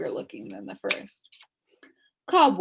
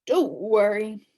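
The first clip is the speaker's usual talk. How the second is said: growled; 6 dB louder, slower than usual. Acted. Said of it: "growled Tok".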